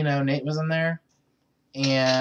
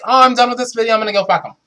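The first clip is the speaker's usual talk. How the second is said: giddy eager quote; 7 semitones higher, 8 dB louder, much faster than usual. Pretend. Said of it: "I'd be like".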